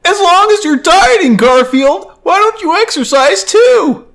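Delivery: very high, loud cartoon falsetto; peppy falsetto comic-strip owner; John. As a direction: squeal it in a high, comic put-on voice. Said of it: "John comes up to him".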